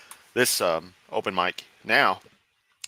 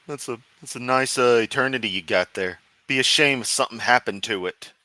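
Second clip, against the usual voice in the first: threatening mobster, mild impression; lightly voiced menacing gangster; mafia boss voice; 3 semitones higher than usual. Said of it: "Fucking mafia boss".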